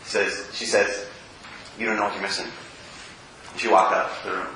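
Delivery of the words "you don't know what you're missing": low parting taunt. Retold or imitated. Rejected woman's parting line.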